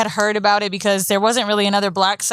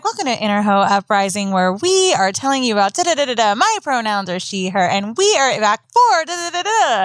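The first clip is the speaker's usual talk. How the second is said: newscaster intro; 3 semitones lower than usual. Retold or imitated. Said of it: "It's like a good newscastery hoe".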